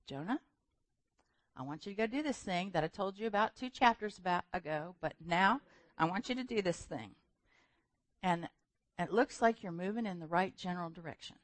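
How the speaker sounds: gently patient, easy pace; calm God voice. Retold or imitated. God calmly sending Jonah again. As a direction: reassure him calmly. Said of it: "very calmly, God says".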